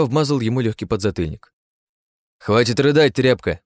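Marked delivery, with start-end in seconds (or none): 2.4-3.6 louder, higher scolding shout; harsh yell. Acted. Hero scolds the crying elf boy, yelling. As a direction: bark at the boy to stop.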